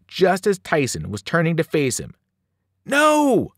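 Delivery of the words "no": high, loud, drawn-out cry of "No!"; desperate shout, pitched way up; yell. A narrator's reading. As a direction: yell out in alarm. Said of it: "I yelled".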